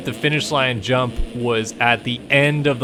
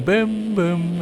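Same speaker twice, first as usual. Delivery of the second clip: imitated alert boom; 6 semitones higher than usual. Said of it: "N B C would do the boom".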